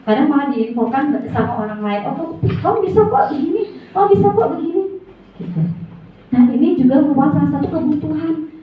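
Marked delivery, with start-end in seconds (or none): 2.1-4.8 high, fast cheerful praise; imitating an upbeat encourager; encouraging voice. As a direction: cheer someone on brightly. Encouraging quote from others.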